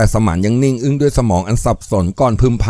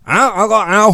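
higher-pitched grudging agreement; reluctant grumble; 8 semitones higher than usual. A narrator's reading. A man grudgingly agreeing with his friend, grumbling. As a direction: grumble as you give in. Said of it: "เขาบ่นยังเสียไม่ได้".

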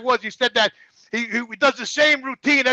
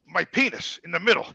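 ordinary delivery

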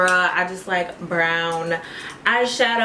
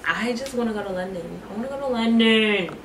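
lightly put-on British accent; playful British accent; 3 semitones higher, faster than usual. Vlogger dreaming aloud of London, playful British accent. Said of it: "I love the British accent".

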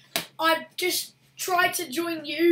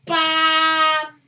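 sudden shouted bam; loud exclamation; 10 dB louder than usual. Real, not acted. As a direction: blurt it out loud and hard. Game hit exclamation.

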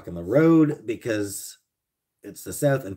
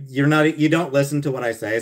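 mock frustrated; 5 semitones higher, 5 dB louder than usual. Frustrated complaint to chat.

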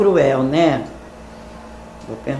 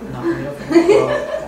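laughing squeal; 11 semitones higher, much faster than usual. Real, not acted. Mom flustered, laughing.

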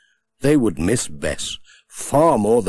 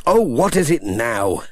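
mildly cross; 2 semitones higher, 3 dB louder than usual. Acted. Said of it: "said Pat in a cross voice".

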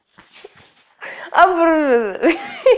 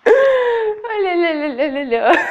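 drawn-out la-la exercise; slow tongue warm-up; 3 semitones higher, much slower than usual. Shown as a demonstration. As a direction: stretch the syllables slowly. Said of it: "у меня язык заплетается".

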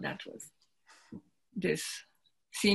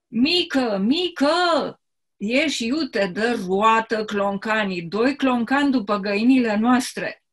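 local Romanian dialect; 3 dB louder than usual. Acted. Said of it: "I will try a kind of imitation".

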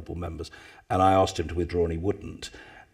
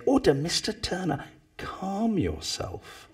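Speaker calling order; 11 semitones higher, 4 dB quieter, slower than usual. Retold or imitated.

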